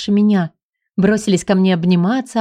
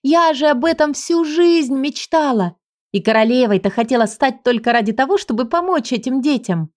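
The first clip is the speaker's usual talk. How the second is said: thrilled; 4 semitones higher than usual. Acted. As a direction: pour out a lifelong dream. Heroine thrilled by orphans' home.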